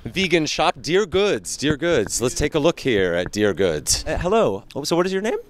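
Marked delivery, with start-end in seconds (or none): none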